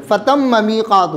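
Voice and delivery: فتم میقات recited slowly with the doubled میم held; slow recitation. Shown as a demonstration. Teacher showing the student the word, slow recitation. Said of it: "یہ فتم اس دو میم".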